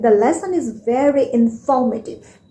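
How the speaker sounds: INFORMATIVE with weight on FOR; stress on INFORMATIVE. Shown as a demonstration. Teacher demonstrating stress in a sentence, stressed inFORmative. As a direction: press the second syllable of INFORMATIVE. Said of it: "I am using my stress".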